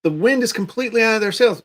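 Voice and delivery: ordinary talk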